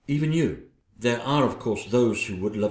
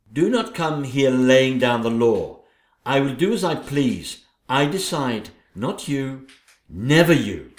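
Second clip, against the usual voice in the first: defiant queen; 4 dB louder than usual. Acted. Queen defying her sister-in-law.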